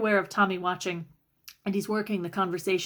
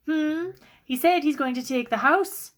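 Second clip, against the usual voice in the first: indignant confrontation; 7 semitones higher, 3 dB louder than usual. Acted. Sister confronts brother.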